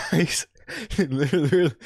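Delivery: breaking up with laughter; laughing. Real, not acted. Streamer cracking up over a fan base nickname, laughing. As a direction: crack up mid-sentence.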